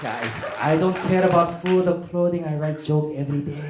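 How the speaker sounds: put-on earnest immigrant comic, mildly accented; light mock accent, dead serious ambition; lightly voiced North Korean comedian.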